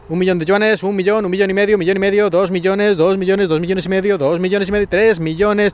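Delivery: rapid auction calls, bidding upward; auctioneer. Pretend. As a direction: call out bids like an auctioneer. Mock auction of the flat price.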